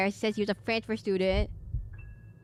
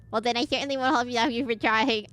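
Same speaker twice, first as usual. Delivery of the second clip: villainess voice; 3 semitones higher, 3 dB louder than usual. Acted. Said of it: "I need to give her a different voice".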